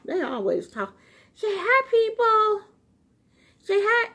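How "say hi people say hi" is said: high, sing-song pet voice, coaxing; talking to the dog. Real, not acted. Woman coaxing her dog Gizmo to come over, high pet talk. Asks dog to greet viewers.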